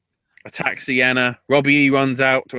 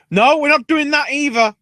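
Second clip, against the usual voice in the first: Maria; 12 semitones higher, 5 dB louder than usual. Retold or imitated. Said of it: "but Maria goes".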